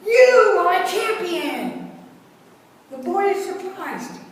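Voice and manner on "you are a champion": high, loud, slow echo ringing back; mountain's echo. A narrator's reading. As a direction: let it return from the distance. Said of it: "The mountain responds".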